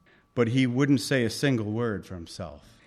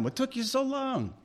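gentle welcome; 10 semitones higher, 5 dB quieter than usual. Retold or imitated. Voicing Jesus waiting warmly.

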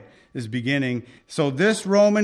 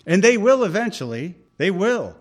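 fervent affirmation; 4 semitones higher, 4 dB louder than usual. Real, not acted. Preacher affirming Israel's future.

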